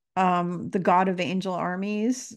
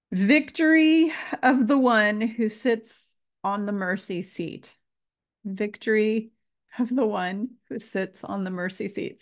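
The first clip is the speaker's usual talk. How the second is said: fighting back tears on each word; real emotion breaking through; getting emotional; 3 semitones higher than usual. Real, not acted. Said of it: "Sorry, I'm getting emotional again".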